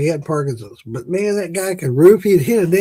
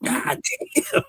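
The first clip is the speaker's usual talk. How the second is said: much higher, laughing god damn; retelling watching the roofer, high amazed outburst; amazed exclaim; 7 dB quieter than usual. Retold or imitated. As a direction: marvel at it, pitch flying up.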